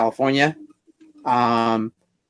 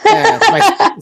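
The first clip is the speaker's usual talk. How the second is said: put-on Spanish accent; 6 dB louder than usual. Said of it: "my Spanish accent".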